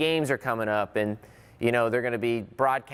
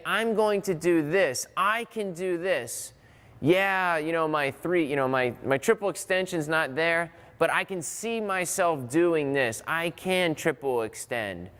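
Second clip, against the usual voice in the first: confident self-talk; 3 semitones higher than usual. Shown as a demonstration. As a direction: psych yourself up, "I can do this". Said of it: "You can talk to yourself and say".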